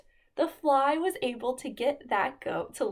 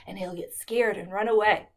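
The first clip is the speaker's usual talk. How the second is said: lightly voiced sure wolf; wolf reassuring the crying bobcat and boy; confident wolf; 3 semitones lower than usual. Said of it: "the wolf said".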